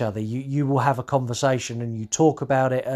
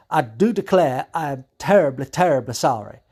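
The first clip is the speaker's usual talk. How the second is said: hint of hammed-up Southern US; terrible Southern accent; 7 dB louder than usual. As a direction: apologise in a badly faked Southern accent. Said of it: "my terrible Southern accent".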